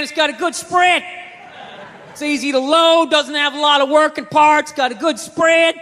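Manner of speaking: a hint of a backwoods gun seller; redneck gun dealer. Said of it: "there's some redneck there".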